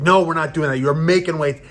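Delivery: retold no-nonsense insistence; firm coach. Coach firmly overrules him in retold exchange.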